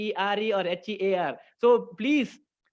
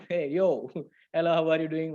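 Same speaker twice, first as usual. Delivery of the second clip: laughing greeting; 3 semitones lower than usual. Retold or imitated. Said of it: "different ways we can say hi".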